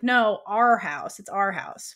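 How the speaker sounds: slow, gently insistent quote; mildly tender retold correction; gentle correction. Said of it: "Sam very gently corrects her".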